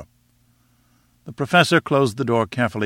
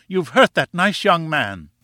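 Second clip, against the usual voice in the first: high, drawn-out indignant reproach; screamed reproach; 6 semitones higher, 3 dB louder than usual. A narrator's reading. Wife accusing husband of hurting a visitor, screamed reproach. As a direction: scold slowly in a high wifely voice. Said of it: "she screamed".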